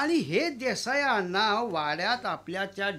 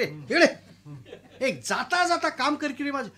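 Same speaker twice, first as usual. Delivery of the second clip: wife calling out; 3 semitones higher, 3 dB louder than usual. Acted. Wife calls peon back.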